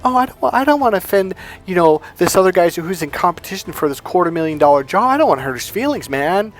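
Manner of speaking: hand-wringing mock reluctance; a fretful, mocking imitation of a pushover; mock timid voice. Mocking the man too timid to compete, mock timid.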